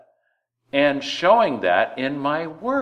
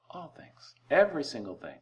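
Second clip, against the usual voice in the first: soft repeated emphasis; 2 semitones higher, 7 dB quieter than usual. Shown as a demonstration.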